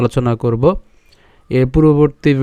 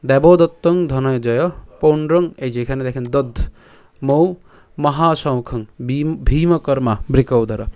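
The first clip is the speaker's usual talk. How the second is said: soft verse reading; 3 dB quieter than usual. Shown as a demonstration. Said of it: "তাহলে কি দাঁড়াচ্ছে".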